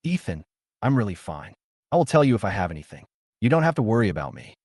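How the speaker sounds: muffled, face buried in arms. Acted. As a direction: speak through folded arms. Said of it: "He said in a muffled voice".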